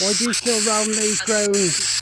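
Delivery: slow, loud, high call to spirits; calling out slowly. Acted. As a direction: draw each word out to the trees.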